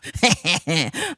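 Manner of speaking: short, awkward chuckle; stilted little laugh; terrible laugh. Real, not acted. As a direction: laugh badly, in little bursts. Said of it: "That was a terrible laugh".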